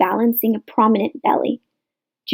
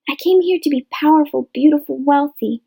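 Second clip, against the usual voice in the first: mock dreamy newcomer; 5 semitones higher than usual. Mocking newcomers' stock answer.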